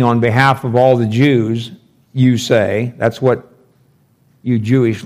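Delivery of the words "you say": "you" given the main weight; stress on you. Shown as a demonstration. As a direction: lean on the word "you". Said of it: "you" is emphatic".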